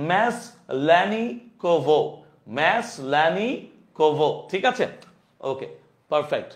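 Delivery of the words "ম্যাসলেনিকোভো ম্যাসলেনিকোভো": ম্যাসলেনিকোভো drawn out, very slow and even; slow model for the class to repeat; slow pronunciation. Shown as a demonstration. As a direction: stretch every syllable of ম্যাসলেনিকোভো. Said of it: "আমার সাথে সাথে উচ্চারণ করো".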